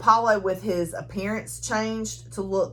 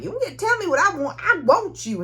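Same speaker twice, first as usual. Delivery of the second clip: put-on high, fast, louder girlish retort; mock Josie; 10 semitones higher, 4 dB louder, faster than usual. Josie snaps back at Seth, high and fast. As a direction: fire it back like a sassy girl. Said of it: "when Josie's like".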